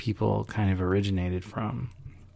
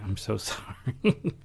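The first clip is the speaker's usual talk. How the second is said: laughing apology; 4 dB quieter, slower than usual. Real, not acted. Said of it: "I keep yawning".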